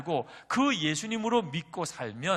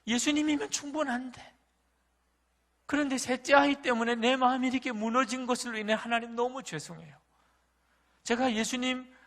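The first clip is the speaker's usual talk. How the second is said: high, straining voice of confession; repentant prayer; 9 semitones higher, 3 dB louder than usual. Retold or imitated. Pastor confessing to God at dawn, high pleading repentance. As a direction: plead for forgiveness as if near tears.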